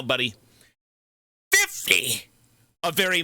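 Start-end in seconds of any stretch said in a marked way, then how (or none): 1.5-2.3 very high-pitched shout of amazement; excited shout. Real, not acted. Streamer celebrating a fifty-sub gift, excited high shout. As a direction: shout it sky-high for the donation. Reacting to a big gifted-subs donation.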